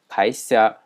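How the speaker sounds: 会社 read as kaisha; Japanese reading. Shown as a demonstration. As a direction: say 会社 the Japanese way, kai-sha. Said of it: "在日文当中就变成".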